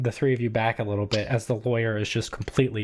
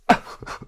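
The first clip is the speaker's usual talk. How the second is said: voiceless gasp; short wheezing exhale of a dying man; last dying breath. Acted. Dying old man's last breath.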